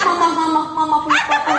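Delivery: playful mock whine to a wife; whining husband. Husband home from work to his wife, mock whining. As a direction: lightly imitate a husband being clingy. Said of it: "suaminya pulang ngerengek sama ibu".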